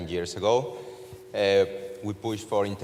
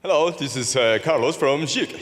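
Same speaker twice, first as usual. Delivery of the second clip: high, loud mock American accent; big, high-pitched attempt at an American accent; 7 semitones higher, 7 dB louder than usual. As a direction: belt out the name in a hammed-up American accent. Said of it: "your best American accent of saying your name".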